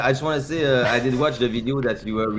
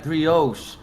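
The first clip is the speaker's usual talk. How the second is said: mock English accent. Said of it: "your fucking English accent".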